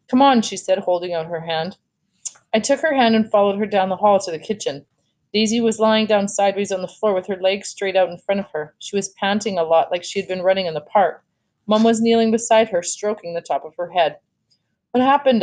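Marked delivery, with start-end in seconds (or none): 0.1-0.4 urgent. A narrator's reading. Crying sister urges him. 14.9-15.4 alarmed. A narrator's reading. Augie sees the sick dog.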